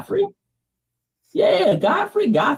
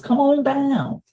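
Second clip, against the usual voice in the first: high, drawn-out game-show host call; Bob Barker; 8 semitones higher, much slower than usual. Acted. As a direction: stretch it out like a mock contestant summons. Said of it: "I'm like Bob Barker".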